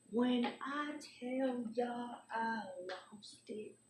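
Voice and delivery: high, drawn-out whispery exclamation; slow, breathy emphasis, kept under wraps; hushed outburst. Real, not acted. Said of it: "That's why I'm trying not to".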